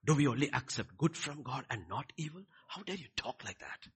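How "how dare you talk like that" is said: much quieter, restrained reproach; hushed acted reproof; soft rebuke. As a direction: scold gently, without raising the voice. Contrast with the shouted rebuke.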